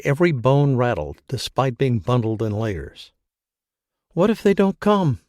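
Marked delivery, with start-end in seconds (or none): 4.1-5.2 rising hysteria. A narrator's reading. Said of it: "She was becoming hysterical again".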